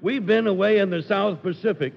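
building excitement. Acted. Sailor pleading, building.

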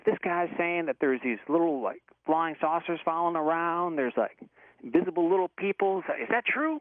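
incredulous Southern question, climbing high at the end; Southern accent. Retold or imitated. Good old boy checking a wild story by phone, imitated Southern accent. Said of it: "like, a thick Southern accent".

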